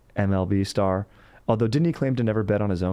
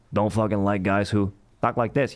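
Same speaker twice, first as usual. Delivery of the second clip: other mock voice.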